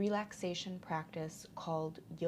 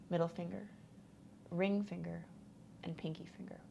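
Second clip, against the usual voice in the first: calm, even relaxation guide; unhurried instructions with long pauses to settle; guided meditation; 4 dB quieter than usual. Real, not acted. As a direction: guide them gently into rest.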